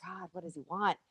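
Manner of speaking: unvoiced whisper, hushed; whispered worry. Retelling meeting the crying baby, whispering in dismay. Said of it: "I was like".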